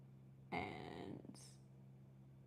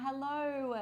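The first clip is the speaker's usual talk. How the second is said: chirpy greeting; 7 semitones higher, 3 dB louder than usual. Real, not acted. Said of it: "greeting viewers".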